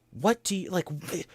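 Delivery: slow, rising incredulous question; stunned can't-believe-it ask; disbelief. Retold or imitated. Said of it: "in disbelief".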